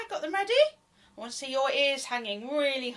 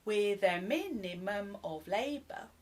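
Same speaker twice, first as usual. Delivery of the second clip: whispered; 5 semitones lower, 7 dB quieter than usual. Shown as a demonstration. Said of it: "Let's just do the first bit".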